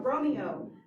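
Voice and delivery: loud cry of the name; retold cry. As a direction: cry out the name as Juliet did. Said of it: "then cries out".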